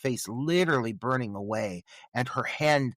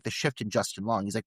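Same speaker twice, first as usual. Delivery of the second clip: ordinary talk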